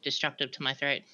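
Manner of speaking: slow, lightly voiced gremlin. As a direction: stay in a hint of a gremlin. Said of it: "this gremlin voice right now".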